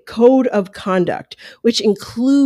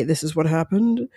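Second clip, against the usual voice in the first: lightly imitated TV host announcement; a rough go at a measured presenter's delivery; hint of a show host teasing what's next; Julie Chen; 3 semitones lower, 5 dB quieter than usual. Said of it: "not really good Julie Chen".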